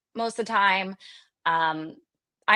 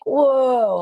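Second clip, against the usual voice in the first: sudden louder alarmed whoa; startled whoa; 3 semitones higher, 5 dB louder than usual. Retold or imitated. Husband imagining what he signed up for, startled whoa. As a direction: pull up short, alarmed. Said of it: "Andrew would be like".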